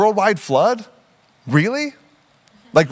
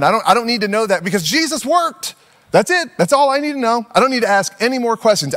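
mock defensive refusal; 3 semitones higher than usual. Believer refusing tough questions about the Bible, mock defensive. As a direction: shut every question down in a rush.

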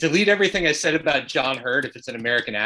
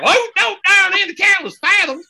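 high, loud hammed-up narrator; mock fancy narrator; 8 dB louder than usual. Host parodying the video's narrator, shrieky exaggerated fancy voice. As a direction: send up the fancy diction at the top of your voice. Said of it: "because he was enunciating".

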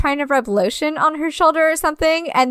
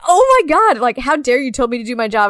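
mock outrage; 3 dB louder than usual. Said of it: "and I'm like".

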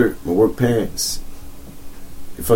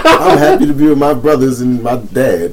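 laughing mock-sweet line; giggling parody of a sappy quote; 4 semitones higher, 4 dB louder than usual. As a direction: read it like a cheesy caption while laughing. Mocking caption read with laugh.

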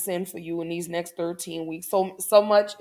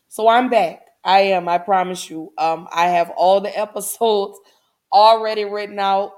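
excited; 6 dB louder than usual. Real, not acted. Announcing her return to listeners.

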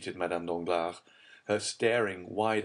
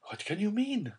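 frightened, higher question; shuddering. A narrator's reading. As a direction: ask it trembling with fear.

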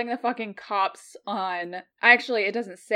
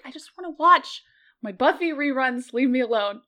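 higher, louder annoyed whine; exasperated owner; 6 semitones higher, 3 dB louder than usual. Retold or imitated. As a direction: play the fed-up owner on the couch. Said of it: "And it's like".

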